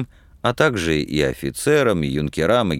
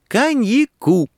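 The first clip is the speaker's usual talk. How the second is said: high, loud, drawn-out call; hasty cry; 5 dB louder, slower than usual. A narrator's reading. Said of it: "поспешно крикнула Нюра".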